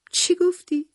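high-pitched, startled question; astonished. A narrator's reading. Wife taken aback by husband's odd request, astonished. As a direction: ask it in sudden disbelief, pitch jumping up. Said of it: "با تعجب پرسیدم".

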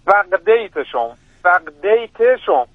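سقدیتشون said slowly, syllable by syllable; teacher repeating سقدیتشون slowly so the host can catch it; slow spelled-out repeat. Shown as a demonstration. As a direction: break سقدیتشون into slow clear syllables for a learner. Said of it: "هجی کنی".

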